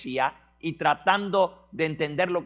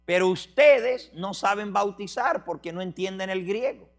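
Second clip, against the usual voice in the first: insistent tour guide; 4 semitones higher, 5 dB louder than usual. Retold or imitated. Preacher voicing Greek tour guide.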